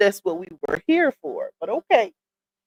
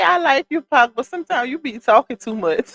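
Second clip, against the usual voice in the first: higher, teasing mock voice of the commenter; 5 semitones higher than usual. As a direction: parrot her comment back with a higher mocking lilt. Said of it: "She said".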